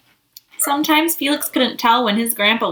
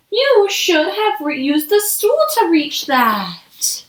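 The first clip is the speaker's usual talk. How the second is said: slow, higher scolding; scolding mom; 5 semitones higher, slower than usual. Acted. Mom scolding Felix over spilled cereal, slow and higher. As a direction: spell it out like a cross mom. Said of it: "yelled his mom".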